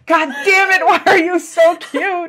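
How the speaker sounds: loud, high mock outrage; mock angry cuteness. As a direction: shout at the cat, overwhelmed by cuteness. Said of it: "I'm just like".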